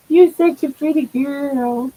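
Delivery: doting, emphatic praise for a pet; gushing pet praise. Real, not acted. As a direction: gush over an adored pet.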